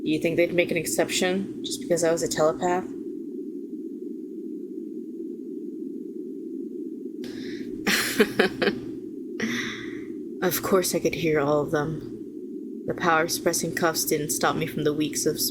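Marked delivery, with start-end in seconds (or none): 2.9-10.4 bitter chuckle. Acted. Telepath villain recalling Supermax to the hero, bitter soft chuckle. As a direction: chuckle quietly to yourself.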